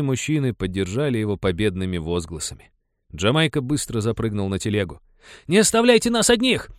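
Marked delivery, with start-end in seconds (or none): 5.5-6.7 high, loud cry for help; desperate scream. Acted. Jamaica on the cart screams at the leaving men, desperate. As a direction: scream it, begging them to stay. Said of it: "закричал он".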